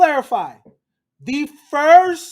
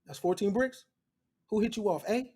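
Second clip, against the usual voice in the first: sly hushed aside; 4 semitones lower, 8 dB quieter, faster than usual. Retold or imitated. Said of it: "Anthony sizing John up".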